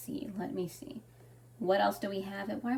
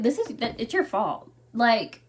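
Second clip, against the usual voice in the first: calling the editor out, getting louder and sharper; exasperated rant; 5 dB louder than usual. Retold or imitated. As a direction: let the blame build into a loud scolding. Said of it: "And I'm like".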